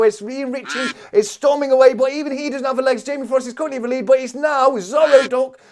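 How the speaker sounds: fast, high-pitched racing play-by-play; live race commentary. Real, not acted. Streamer calling a duck race for viewers, excited race commentary. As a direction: call the race at full tilt, voice up high.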